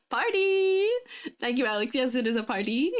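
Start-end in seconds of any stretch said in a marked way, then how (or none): 0.1-0.9 a high, bright, louder shout; excited cheer. Real, not acted. Streamer cheering a viewer's party joke, excited whoop. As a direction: whoop it like the party just started.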